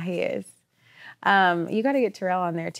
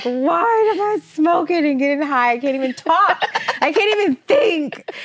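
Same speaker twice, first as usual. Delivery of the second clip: mock panic; 7 semitones higher than usual. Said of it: "Ugh, I'm like".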